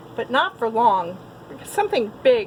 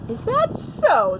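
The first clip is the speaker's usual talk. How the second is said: laughing; 7 semitones higher than usual. A narrator's reading. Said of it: "the wolf laughed".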